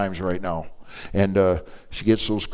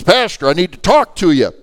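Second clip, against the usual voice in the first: urgent plea; 8 semitones higher, 7 dB louder than usual. Retold or imitated. Lady urgently stops the pastor.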